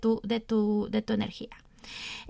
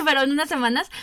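laughing; 2 semitones higher, 4 dB louder, much faster than usual. Real, not acted. Laughs at own confusion.

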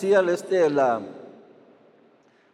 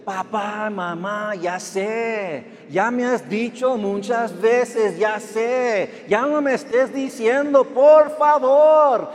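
put-on whiny kid; slower than usual. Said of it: "¿qué decías?".

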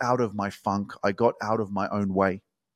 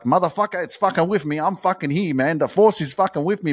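amazed exclamation; 6 semitones higher, 4 dB louder than usual. Retold or imitated. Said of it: "I'm like".

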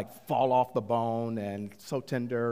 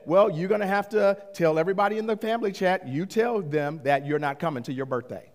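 passive-aggressive; 6 semitones higher, faster than usual. Retold or imitated. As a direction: pointedly lay the blame on him. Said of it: "passive aggressively".

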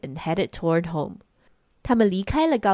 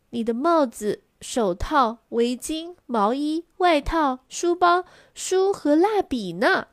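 exasperated mother; 7 semitones higher than usual. A narrator's reading. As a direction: list climbing steadily higher item by item. Mother lists all the lost things.

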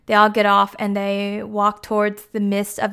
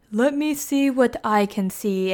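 lightly voiced mystical seer, slow; slow, drawn-out words of a troll seer; a hint of mystic solemnity; 2 semitones higher, 4 dB quieter, slower than usual. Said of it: "can see things and is all mystical".

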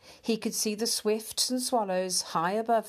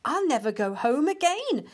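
blissful sigh; 6 semitones higher, 4 dB louder than usual. A narrator's reading. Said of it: "he sighed".

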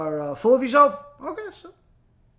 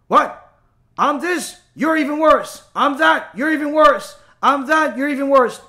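higher, louder taunting back and forth; mock bickering one-upmanship; 6 semitones higher, 7 dB louder than usual. A preacher mimicking people topping each other's insults. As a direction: trade insults like squabbling kids.

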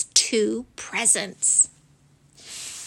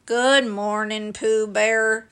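gloomy Eeyore; 2 semitones lower than usual. Acted. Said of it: "said Eeyore gloomily".

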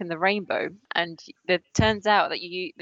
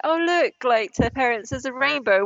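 put-on high, excited child pointing something out; lightly voiced excited youngster; little kid; 5 semitones higher than usual. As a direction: pipe up like a kid to the parents. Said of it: "like, little kids that'd be like".

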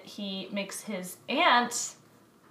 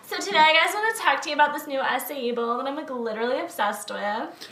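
lightly voiced Instagram model; bubbly sorority girl. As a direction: gush like an influencer selling a product. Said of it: "that was an Instagram model character".

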